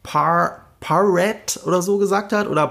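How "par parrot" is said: "Parrot" as a tentative wrong surname; imitated mispronunciation. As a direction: try out "Parrot" as a garbled name. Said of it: "falsch ausgesprochen von Jimmy Kimmel". ("Parrot" zögernd als falsch ausgesprochener Name)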